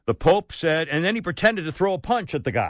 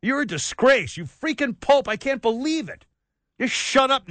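disgusted scolding; 6 semitones higher than usual. Real, not acted. Berating the Pope.

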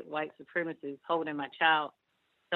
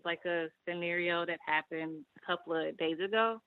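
ordinary talk

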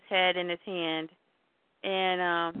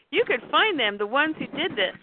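raised-pitch acted pleading; urgent insistence; 6 semitones higher than usual. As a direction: push a reluctant friend hard. Pete presses Clark.

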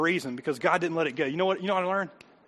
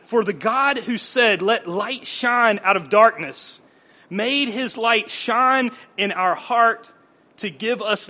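slow, deliberate reading of the verse; solemn Bible reading; scripture reading; much slower than usual. Real, not acted. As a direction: lay each word down. Reads scripture.

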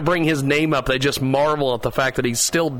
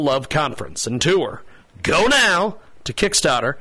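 measured ad read with stretched, emphatic key words; promo read. Real, not acted. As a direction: read out a pledge appeal, pausing between phrases. Reads a pledge promo.

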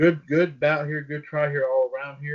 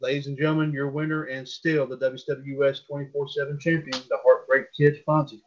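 booming pumped announcer. Acted. Announces the champion.

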